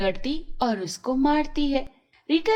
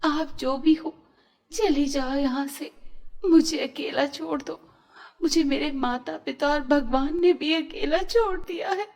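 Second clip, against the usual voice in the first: mild tearful plea; 4 semitones higher than usual. Acted. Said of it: "Rita रोते हुए".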